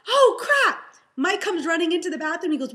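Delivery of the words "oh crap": high laughing exclamation; loud, high laughing dismay; laughing oh crap. Retold or imitated. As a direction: laugh out the shock. Shocked, laughing at herself.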